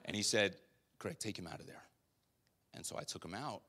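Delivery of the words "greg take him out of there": softer, calm, insistent command; hushed, patient final word; quiet voice of God. Retold or imitated. God telling Greg a third time, softly firm.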